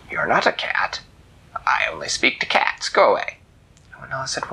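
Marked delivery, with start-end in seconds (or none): 0.1-3.4 dismissive whispered cat; hushed grumpy cat; whispery old cat. Acted. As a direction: brush off the visitor in a whisper.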